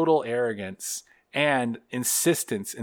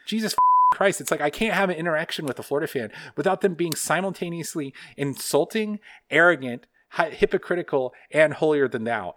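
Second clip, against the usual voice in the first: angry rant; 4 semitones higher than usual. Real, not acted. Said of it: "You really rage blacked out".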